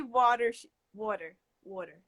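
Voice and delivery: "water" in a New Jersey accent. Shown as a demonstration. Demonstrating for a doubtful friend, New Jersey "water". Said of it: "now I hear it".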